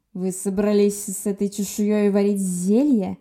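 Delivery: slow, hissed through clenched teeth. A narrator's reading. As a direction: spit it out slowly through teeth. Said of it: "прошипел сквозь зубы". (прошипеть сквозь зубы, медленно)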